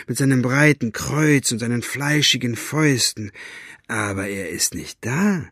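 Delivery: lightly voiced mocking challenge; taunting rogue. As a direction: goad him coolly. Staubfinger taunting coward.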